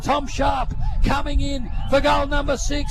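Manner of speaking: high, loud, slowing call; excited call. Real, not acted. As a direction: hold the breath as the kick flies. Calling the kick for goal.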